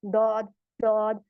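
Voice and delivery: दौद with the tongue tip pressed on the upper teeth, a dental d; wrong daud. Shown as a demonstration. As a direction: say दौद slowly with a thin teeth-touching d. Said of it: "तो गलत है". (गलत दौद, जबान दांतों पे)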